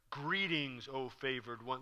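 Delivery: quietly trying out the line; a hushed, tentative greeting; soft rehearsal. Shown as a demonstration. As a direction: murmur it as a first practice run. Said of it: "the intonation he's gonna put in that phrase".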